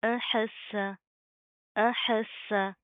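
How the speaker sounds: slow Quranic recitation, seen pressed hard; strong doubled seen. Shown as a demonstration. Teacher recites the word for students, seen held strongly. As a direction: press the seen firmly with shadda. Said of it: "सख्ती से, मजबूती से जमा कर पढ़ेंगे".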